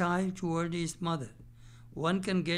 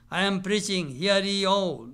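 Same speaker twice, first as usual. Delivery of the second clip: pompous, louder self-important announcement; proudly; 5 dB louder than usual. Retold or imitated. Vain acharya announcing himself to his admirers, pompously. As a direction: puff up like a preacher lording it over a crowd. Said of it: "and says proudly".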